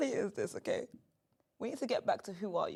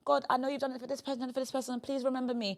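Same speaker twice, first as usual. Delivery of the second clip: higher-pitched earnest plea; pleading prayer; 5 semitones higher, faster than usual. Retold or imitated. Host quoting her own prayer to God, eager pleading. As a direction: appeal eagerly to God, slightly raised pitch. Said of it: "I'll be saying".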